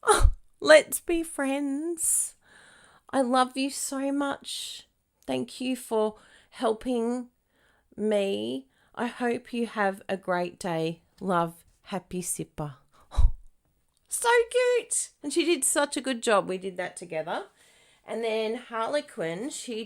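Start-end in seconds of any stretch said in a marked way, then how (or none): 0.0-12.7 put-on higher, slow sweet child's voice; reading a child's card. Reading a young girl's card aloud, sweetly childlike. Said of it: "she's written inside here for me". 13.1-15.1 very high, loud gush; gushing delight. Real, not acted. Host gushing over a child's handmade card.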